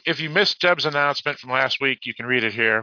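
lifted reading voice; reading a post aloud. Real, not acted. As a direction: read the announcement out to listeners. Reads a posted message.

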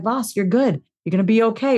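gentle, reassuring self-talk; kind inner voice. Retold or imitated. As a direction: reassure yourself kindly. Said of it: "that voice inside of me that's like".

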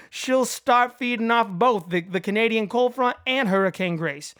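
put-on a light, self-admittedly awful Massachusetts accent; bad Massachusetts accent. Podcast host reads a movie quote to his co-host in a bad Massachusetts accent. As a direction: read the meteorologist's lines in a hammy Boston accent. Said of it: "my best Massachusetts accent".

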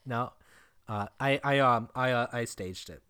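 halting, hesitant Obama cadence; Obama impression. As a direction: stammer it out like Obama. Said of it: "You almost sound like you're doing, like, an Obama impre-, impression".

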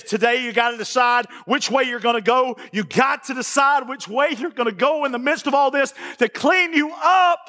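insistent sermon crescendo; building preacher's exhortation. Retold or imitated. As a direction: press each phrase harder, stretch the last words. Preacher building to God's ultimatum.

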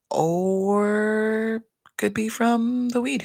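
slow, laughing through the words; half-laughing admission; laughing confession. Real, not acted. Joking to viewers about weed, laughing slowly.

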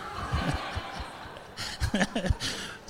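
soft, breath-only wheezy laugh; teasing laugh. Real, not acted. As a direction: chuckle almost silently at your joke. Teasing a listener about jogging.

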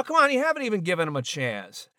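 normal talking voice

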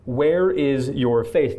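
"Where" leaned on, each word drawn out slowly; slow emphatic repeat. Shown as a demonstration. Preacher repeats Jesus' question to the congregation, slow and emphatic. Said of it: "repeats Jesus' question for emphasis".

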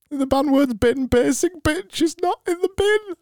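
high, strained grinning voice; high falsetto chatter; high put-on voice. Shown as a demonstration. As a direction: keep the squeaky forced smile going. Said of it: "this voice".

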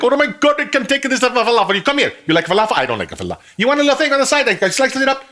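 put-on high, excited Middle Eastern accent; hammed-up Middle Eastern accent. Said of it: "that's an Indian voice, not a Middle Eastern voice".

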